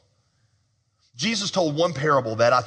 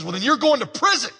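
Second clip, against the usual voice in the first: much higher, pushy demand; 9 semitones higher, 3 dB louder than usual. Retold or imitated. Forgiven man demanding three dollars from his buddy, much higher. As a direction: shake him down for three dollars.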